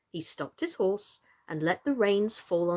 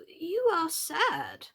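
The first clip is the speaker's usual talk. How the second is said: anxious; 8 semitones higher, much slower than usual. A narrator's reading. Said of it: "the knight said in an anxious tone".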